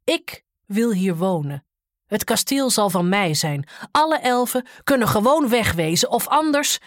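loud, booming giant threat; threatening giant. Acted. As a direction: boom it out, rising to a threat.

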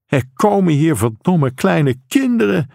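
restrained shout in narration; mild acted shout. A narrator's reading. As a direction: raise the voice as an outraged father. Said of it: "schreeuwde hij".

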